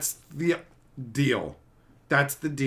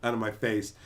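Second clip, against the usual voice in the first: dismissive brush-off; 6 semitones lower, 6 dB quieter than usual. Retold or imitated. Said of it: "and he's like".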